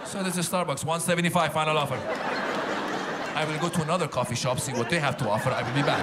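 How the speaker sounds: customer and barista haggling, lightly voiced; mock haggling. Customer haggling with a Starbucks barista, mock stubborn. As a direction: bargain stubbornly. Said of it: "acted Starbucks haggling".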